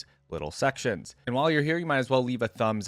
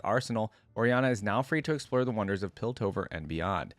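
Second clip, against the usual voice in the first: story narration. A narrator's reading. YouTuber reading Oriana's biography to viewers, story narration. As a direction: clear read-aloud biography voice. Reads the champion's biography aloud.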